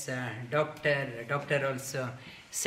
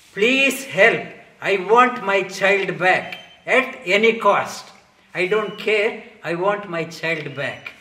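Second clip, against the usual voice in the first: desperate pleading; 2 semitones higher, 6 dB louder than usual. Retold or imitated. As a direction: plead to have the child back. King begs Narada for child.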